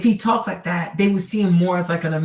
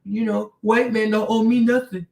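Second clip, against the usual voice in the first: lightly voiced people-pleaser; mimicking a man who always needs validation, lightly voiced; mock eager-to-please guy. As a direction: sell it like you want the white men's approval. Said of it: "you say".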